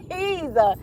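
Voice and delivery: word broken up by giggles; exasperated, giggling begging; laughing plea. Retold or imitated. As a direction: plead through a laugh. Begging family while laughing.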